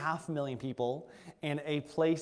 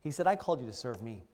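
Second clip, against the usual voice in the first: voice of God; 4 semitones lower than usual. Retold or imitated. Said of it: "what he said to me".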